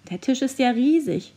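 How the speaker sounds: a mild gasp of fright at the drop; horrified. Acted. Amelie stares down from the huge table, mildly horrified. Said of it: "fragte Amelie entsetzt".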